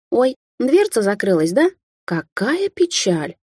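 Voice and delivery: teasing over the closed door, unsurprised and drawn out; mock surprise. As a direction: pretend to be sorry while not surprised at all. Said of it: "Голос у неё был совершенно неудивлённый".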